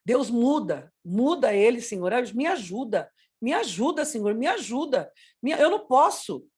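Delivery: re-enacted plea to God; imploring, repetitive prayer; pleading prayer. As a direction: beg in short, repeated appeals. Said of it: "Eu orei".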